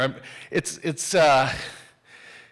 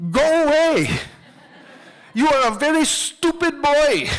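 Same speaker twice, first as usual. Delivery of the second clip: loud, high furious yell; shouted, much higher scolding; angry screaming man; 7 semitones higher, 3 dB louder than usual. Retold or imitated. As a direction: scream him away from the market. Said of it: "he's screaming".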